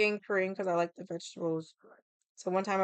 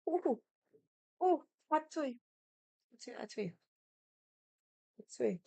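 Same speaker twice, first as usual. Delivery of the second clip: squealing through a hot mouthful; mouth full of hot food; 5 semitones higher than usual. Real, not acted. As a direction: blow out around a burning bite. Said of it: "Hot, hot, hot".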